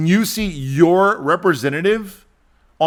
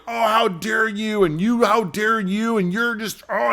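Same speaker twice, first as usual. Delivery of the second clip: higher-pitched mock outrage; mock emotional arguing; 7 semitones higher than usual. Politicians bickering on the floor of the House, mock outraged. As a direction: imitate politicians bickering indignantly. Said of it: "these emotional arguments".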